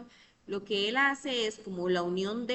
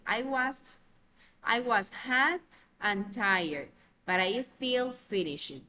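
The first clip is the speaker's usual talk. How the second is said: slow, deliberate English reading of the example; slow example sentence; 2 semitones higher, 4 dB louder, slower than usual. Shown as a demonstration. Teacher reads the conjunction example slowly to students. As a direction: lay out each clause slowly.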